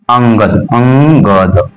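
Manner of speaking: अंगद opening with a nasal hum; nasal first. Shown as a demonstration. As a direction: sound the अं of अंगद through the nose, then open the mouth. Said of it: "पहले उच्चारण नाक से".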